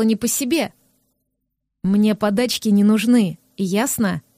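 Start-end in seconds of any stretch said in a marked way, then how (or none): 1.8-4.2 a touch of cold anger, pressed through the teeth; mild mock threat to her face; цедит сквозь зубы. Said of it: "Процедил ей в лицо". (с лёгкой злостью сквозь зубы)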